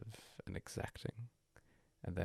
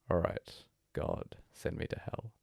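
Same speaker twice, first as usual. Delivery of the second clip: sudden defiant outburst; slower than usual. Acted.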